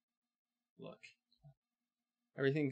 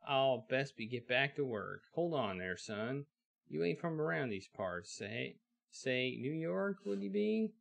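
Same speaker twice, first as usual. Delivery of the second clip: put-on old western blacksmith; 3 semitones higher than usual. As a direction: hail the stranger like a busy old smith. Blacksmith questions the stranger.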